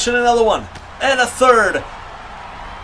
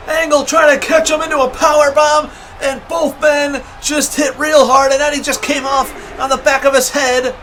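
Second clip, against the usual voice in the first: wrestling commentator. Real, not acted. Live wrestling play-by-play.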